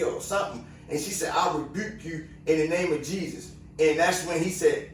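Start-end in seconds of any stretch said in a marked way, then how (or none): 1.3-3.5 imitating her rebuke, noticeably softer; soft quoted rebuke. Woman quietly rebuking the cop, softly spoken. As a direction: hush it down, quote her calmly.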